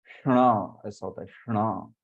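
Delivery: क्षणा with the tongue touching the palate; retroflex ṣṇa. Shown as a demonstration. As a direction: curl the tongue back on क्षणा. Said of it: "ऊपर तालु को स्पर्श करनी चाहिए".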